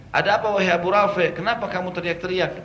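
high, loud put-on helper voice; disguised voice. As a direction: pretend to be a worried friend rushing in. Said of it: "Saya ubah suara saya dengan suara lain".

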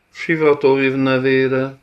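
high, loud drawn-out cry; shocked shout. A narrator's reading. Forest dweller spots a dark line on the coast, shouting. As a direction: cry the oath out loud, stretching it. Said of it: "kiáltott az erdőlakó".

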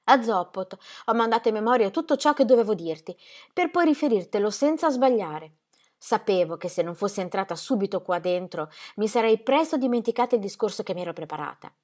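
voce femminile più acuta e agitata; Ingeborg implorante. Acted. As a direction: moglie che supplica con ansia. Ingeborg explains her speech. (voce alta e implorante di Ingeborg)

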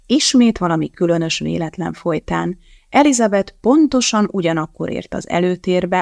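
plain reading voice

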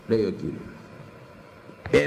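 ordinary talk, nothing marked

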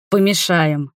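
"помешаем" set apart after a pause; pause, then land firmly on "помешаем"; stress on the last word. A narrator's reading. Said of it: "выделяя последнее слово".

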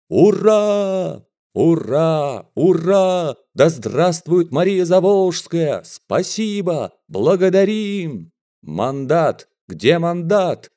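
cheering crowd. A narrator's reading. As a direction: cheer wildly.

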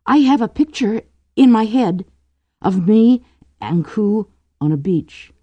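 picture the beloved, high and wistful; dreamy lovelorn girl. A narrator's reading. Drew confides her picture of Ku on a beach, dreamy. Young woman's lines in story.

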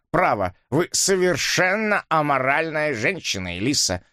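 lightly voiced prudish gent; shocked old man. Dipps shocked. (шокированный старик)

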